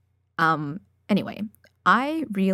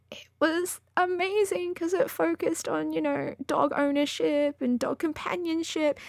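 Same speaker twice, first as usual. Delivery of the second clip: higher, lightly excited praise; excited gushing; 9 semitones higher than usual. Real, not acted. Reader telling listeners why she loved the story, excited. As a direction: let real delight lift the voice.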